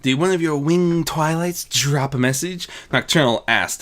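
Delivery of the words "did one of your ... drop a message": slight teasing barb. Acted. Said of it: "a very slight teasing barb in her voice".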